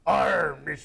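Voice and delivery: pirate-like Klingon growl. Shown as a demonstration. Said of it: "show them how they sing".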